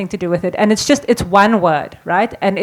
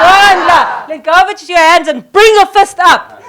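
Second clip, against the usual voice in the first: loud, high chant and laughing order; excited rally cry; 8 semitones higher, 7 dB louder than usual. Real, not acted. Leader leads the chant, laughing with the crowd. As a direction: fire them up with the cry.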